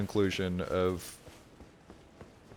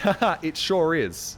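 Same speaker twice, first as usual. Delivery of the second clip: polite fake laugh; 7 semitones higher, 5 dB louder than usual. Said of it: "be polite and be like".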